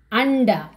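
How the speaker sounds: Anda with tongue curled back on nd; teacher's model of hard Anda; retroflex Anda. Shown as a demonstration. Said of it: "Na pronunciation".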